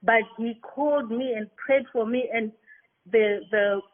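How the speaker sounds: normal talking voice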